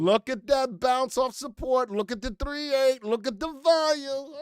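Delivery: high, loud excited call-out. Real, not acted. Host cheering a live stock bounce, loud and excited. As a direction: call out each sign, rising with excitement.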